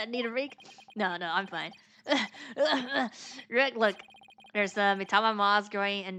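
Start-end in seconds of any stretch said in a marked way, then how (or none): 2.1-3.4 high-pitched breathless cough; acted fit of winded coughs. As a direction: cough and wheeze after exertion. Winded character insists he is fine.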